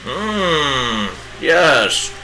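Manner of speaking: bad Gandalf impression. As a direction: play a pompous old wizard, badly on purpose.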